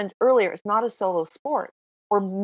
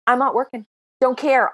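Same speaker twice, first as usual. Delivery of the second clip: defiant; 4 semitones higher, 4 dB louder than usual. Retold or imitated. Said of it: "I've been the breadwinner".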